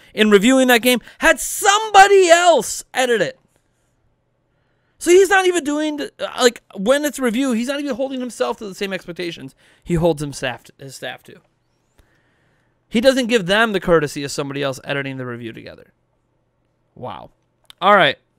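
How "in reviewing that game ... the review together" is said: angry, worked-up heated rant, pitched up, swooping. Speaker criticizing a reviewer's habits; heated rant. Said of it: "I'm getting really heated right now".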